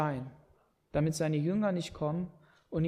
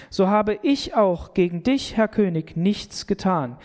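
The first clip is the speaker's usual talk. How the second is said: raised proclamation; 6 dB louder than usual. Acted. Daniel answers the king from the pit, proclaiming. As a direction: call out triumphant from the pit. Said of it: "Aber hier sagt er das".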